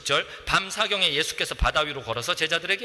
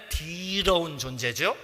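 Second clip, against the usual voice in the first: with feeling; slower than usual. Shown as a demonstration. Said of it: "느낌 살리자면".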